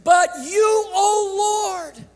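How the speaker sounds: preacher lets David plead, then lift it to a cry; voicing David. Preacher voicing David in prayer, pleading. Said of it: "Do you hear him saying it?".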